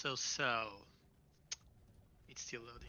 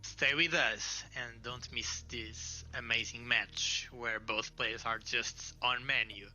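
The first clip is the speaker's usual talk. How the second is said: mock promo announcer. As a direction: tease it like a trailer. Mock promo hype for idle match.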